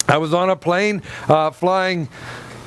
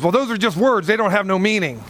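woman's dismissive retort; 3 semitones higher than usual. Retold or imitated. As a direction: brush it off as a seatmate would. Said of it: "and she goes".

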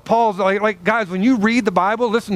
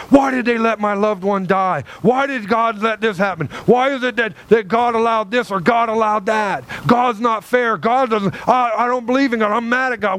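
mad, blaming God; 3 semitones higher than usual. Acted. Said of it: "get mad and they blame God".

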